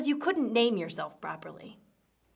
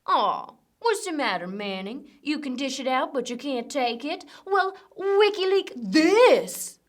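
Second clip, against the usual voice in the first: taunting. Acted. Taunting Manning in a wig.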